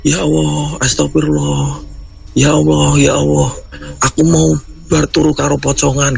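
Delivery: high, shaken plea after waking; retelling a friend's tearful terror; frightened sobbing cry. Retold or imitated. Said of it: "Bar nangis itu dia bilang gini". (menirukan tangisan ketakutan)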